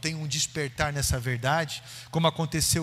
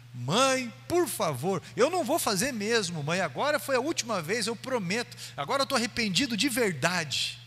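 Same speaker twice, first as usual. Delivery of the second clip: rising, begging voice, repeating please; a caught boy begging his mother, half in tears; pleading son; 6 semitones higher than usual. Retold or imitated. Caught son begging his mother, pleading and rising.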